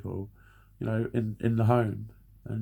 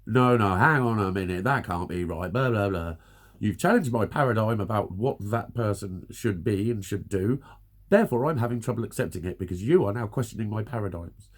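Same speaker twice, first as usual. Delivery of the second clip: mock indignant. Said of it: "You get angry, don't you?".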